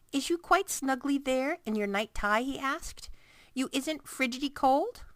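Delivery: caring big giant, fussing; BFG voice. A narrator's reading. BFG voice in reading.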